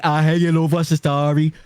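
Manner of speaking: playful inner city Dublin accent imitation. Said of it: "inner city Dublin's like".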